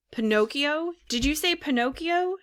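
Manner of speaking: high-pitched astonished question; excited mock shout. A narrator's reading. Puppet hearing his own name from the pigeon, excited cry. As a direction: pipe up in startled disbelief, pitch jumping. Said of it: "shouted the puppet".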